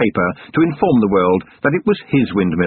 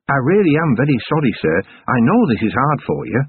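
a touch higher, apologetic dwarf; dwarf sergeant, sorry; 4 semitones higher than usual. Acted. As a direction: gently break the news as the dwarf. Narrator voices the dwarf sergeant.

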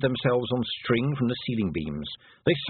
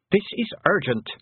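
snapped; 9 semitones higher than usual. A narrator's reading. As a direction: cut him off sharply, pitched up. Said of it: "snapped Tiffany".

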